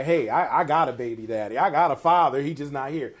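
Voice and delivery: emphatic hypothetical protest; pretend defensive announcement. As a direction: act out having to justify yourself. Voices mother defending herself to staff.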